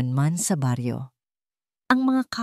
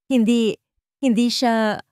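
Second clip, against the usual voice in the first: high, loud, struggling to get the words out; forcing out a denial she can't bear; strained denial; 6 semitones higher, 4 dB louder than usual. Acted. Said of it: "hirap na sabi ni Liwayway". (pilit at hirap na pagtanggi)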